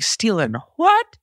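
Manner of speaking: slow, high-pitched disbelieving question; incredulous retort. Retold or imitated. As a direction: throw the accusation back, pitch leaping up. Retold reaction to a theft accusation.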